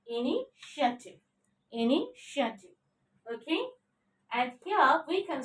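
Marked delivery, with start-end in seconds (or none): 0.1-2.7 "Initiative" said carefully, sha in the middle, falling; pronunciation model. Shown as a demonstration. Teacher modelling the word for learners, careful "Initiative" with sha. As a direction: say "Initiative" as i-ni-sha-tiv, measured. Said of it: "How to pronounce it?".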